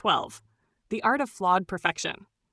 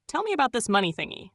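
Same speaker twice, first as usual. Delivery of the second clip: cooing; 4 semitones higher, faster than usual. Pretend. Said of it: "Tilt your head and coo".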